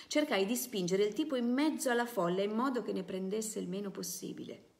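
steady novel reading to a class; story narration. A narrator's reading. Teacher reading a novel to students, in a steady narrating voice. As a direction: read the memoir aloud, unhurried and clear.

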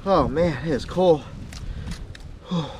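ordinary talk

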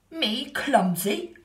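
slow, loud offended kangaroo; indignant kangaroo. A narrator's reading. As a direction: huff it in disbelief. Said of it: "said the kangaroo".

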